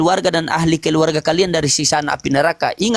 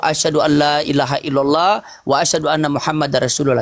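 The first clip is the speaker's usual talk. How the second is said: recited shahada; 4 semitones lower than usual. Shown as a demonstration. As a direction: recite it like a prayer. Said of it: "Kalau bersyahadat itu tangan begini".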